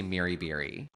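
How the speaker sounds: Syracuse accent. Shown as a demonstration. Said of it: "but I would say Miri Beery".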